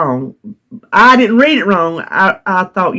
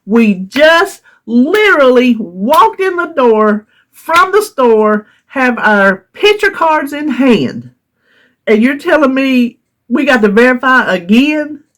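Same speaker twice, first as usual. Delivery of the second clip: exasperated; 3 semitones higher than usual. Retold or imitated. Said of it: "But I am exasperated".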